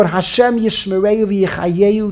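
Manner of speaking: slow, sure blessing; steady confident blessing; with conviction. Acted. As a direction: bless him like you mean it. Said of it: "they say with conviction".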